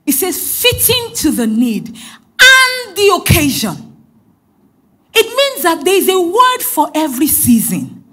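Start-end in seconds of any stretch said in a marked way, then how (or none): 0.6-3.9 preacher booming the key verse slowly; proclaimed verse. Real, not acted. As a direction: ring the verse out to the congregation.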